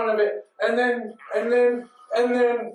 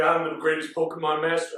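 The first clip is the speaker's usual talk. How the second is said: Mewtwo; 4 semitones lower than usual. Retold or imitated. Mewtwo coming down to trainers, low boast. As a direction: lower mock-villain boast. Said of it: "I don't know why he changed his voice".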